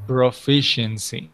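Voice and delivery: Proficiency said slowly, every syllable pro-fi-cien-cy; slow clear model word. Shown as a demonstration. Teacher models the word Proficiency slowly for the student. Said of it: "Repeat after me".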